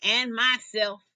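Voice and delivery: slow, drawn-out boast; a proud lion roaring his boast; lightly voiced lion bellowing, slow; lion's roaring boast. A narrator's reading. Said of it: "He'd roar".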